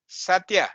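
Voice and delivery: Satya with stress on the final a; teacher's corrected Satya, end-stressed; correct Sanskrit pronunciation. Shown as a demonstration. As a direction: say Satya as sat-YA. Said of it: "Bad pronunciation".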